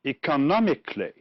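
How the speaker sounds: economically with NOM stressed; quick model economically, peak on the third syllable; stress before the ending. Shown as a demonstration. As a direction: hit NOM in economically, then drop away. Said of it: "are stressed on".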